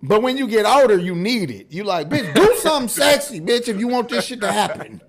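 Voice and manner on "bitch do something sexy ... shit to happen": raised, pleading insistence with a laugh; mock demand. Older man wanting dirty talk from partner, demanding. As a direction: egg her on, half laughing.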